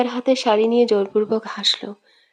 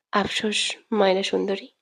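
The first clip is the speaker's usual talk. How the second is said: softer, lower sneering tease; crooked smirk; 3 semitones lower, 7 dB quieter than usual. A narrator's reading. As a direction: smirk the words out, mocking her. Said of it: "বাঁকা হেসে বলে". (বাঁকা হাসি দিয়ে বিদ্রূপের সুরে)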